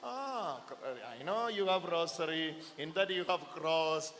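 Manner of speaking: low, soft devil's voice; hushed, belittling tempter; sly devil. Acted. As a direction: play down the cross, quietly dismissive. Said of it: "So what the devil will say?".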